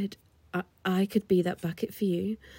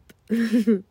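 flirty giggle; 2 semitones higher, 8 dB louder than usual. Acted. Giggle after offer.

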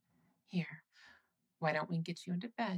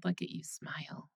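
whisper. Acted. Admiring partner's smile.

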